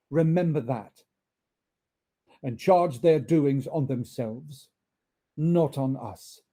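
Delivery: measured, weighty words from a kindly spirit; solemn spirit. Acted. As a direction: Ghost of Christmas Present gently admonishing Scrooge. Spirit solemnly rebukes Scrooge.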